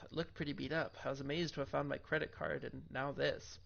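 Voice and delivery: steady narrating read of game text; story narration. Acted. Reads game text aloud.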